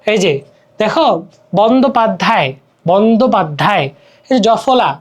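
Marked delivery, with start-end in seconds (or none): 1.6-3.9 বন্দ্যোপাধ্যায় as bon-do-pad-dhay, no y glide; বন্দ্যোপাধ্যায় carefully, ya-phala left silent. Shown as a demonstration. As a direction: say বন্দ্যোপাধ্যায় with plain "do". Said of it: "জফলার কিন্তু এখানে উচ্চারণ হচ্ছে না".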